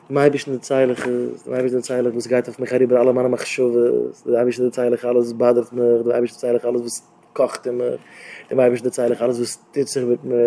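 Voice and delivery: low, subdued listing; hushed, even private outpouring; quiet confiding. Acted. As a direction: confide item after item in a low voice. Recounts confiding everything to God.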